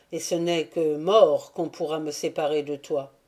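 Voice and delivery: plus grave et plus fort, ardent; Andry jure à la jeune fille qu'il mourra avec elle; serment passionné. Acted. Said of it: "s'écria Andry". (serment ardent, plus fort et plus grave)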